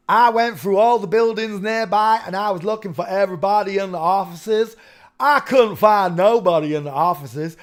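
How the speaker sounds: hammed-up American redneck witness; redneck accent. Witness quoted in same put-on voice.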